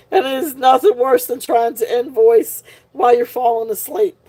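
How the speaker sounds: words pushed out through laughter; laughing while talking. Real, not acted. Host joking about invoicing half asleep, laughing. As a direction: giggle your way to the end. Laughing at her own story.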